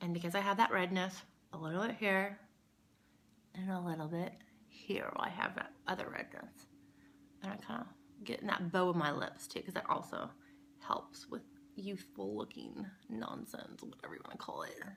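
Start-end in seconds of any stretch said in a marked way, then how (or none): 1.5-14.8 soft, breathy, half-whispered mumbling. Explaining application steps in a how-to video, mumbling. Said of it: "I'm sorry, I'm mumbling".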